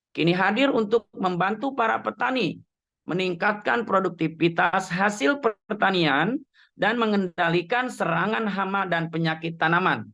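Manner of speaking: rough, scratchy voice; talking through a sore throat; hoarse voice. Real, not acted. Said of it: "mohon maaf suara saya ini, eh, serak ya". (suara serak)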